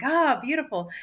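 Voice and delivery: wistful sigh on the words. Shown as a demonstration. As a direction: breathe it out like a sigh. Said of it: "So I make that sigh, and it might sound like I'm sighing".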